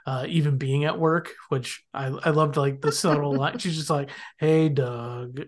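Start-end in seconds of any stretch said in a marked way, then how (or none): 4.4-5.4 mock half-hearted greeting; imitating a reluctant hello; unenthused. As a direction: drag it out, not into it at all. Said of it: "not, not into it at all".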